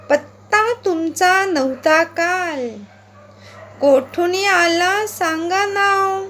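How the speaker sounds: slow, sing-song poem reading with a swinging rhythm; poem recitation. Acted. Teacher reading the frog poem aloud to pupils, rhythmic recitation. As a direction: recite it aloud for the class to follow, stretching the croaks.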